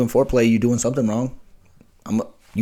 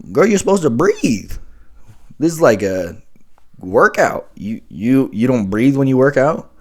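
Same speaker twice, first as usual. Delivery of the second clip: incredulous retort; 4 semitones higher, 5 dB louder than usual. Retold or imitated. Incredulous reply to choke request.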